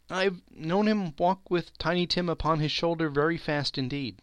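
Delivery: steady cheerful voice. Acted. Mother recalls Bob carrying Tiny Tim, steady cheerful voice. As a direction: gather yourself and carry on cheerfully. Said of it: "in a steady, cheerful voice".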